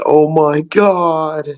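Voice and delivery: slow, high "oh my God"; mock crowd gasp. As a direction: stretch it out in awe. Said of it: "make it".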